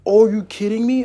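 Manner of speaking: loud, high exasperated cry; real exasperated shout; frustrated outburst. Real, not acted. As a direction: yell at the dice in disbelief. Frustrated bad dice roll.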